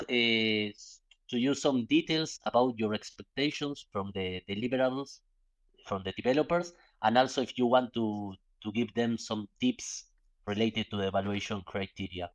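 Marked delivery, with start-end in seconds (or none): 2.8-12.3 slow, careful restatement; slower clear repeat. Real, not acted. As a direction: repeat it slowly for a bad line. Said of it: "can you repeat the question?".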